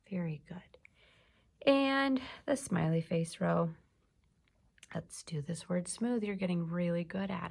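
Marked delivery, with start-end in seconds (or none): 0.1-1.7 slow, soft whispered praise. Real, not acted. Teacher whispers slow praise to the pupil. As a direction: breathe the praise out slowly.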